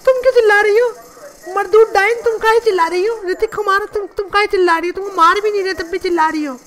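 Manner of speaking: lightly put-on dramatic actress voice; Kangana Ranaut impression. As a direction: play a wronged film star pleading her case. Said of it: "मेरा नाम है कंगना रनावत".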